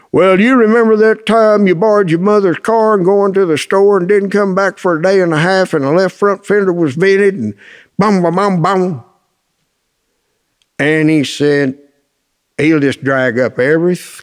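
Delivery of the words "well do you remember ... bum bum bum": put-on higher-pitched, run-on list of old misdeeds; nagging recital. Dad dragging up his son's old mistakes, nagging recital. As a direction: imitate a father dredging up every past mistake.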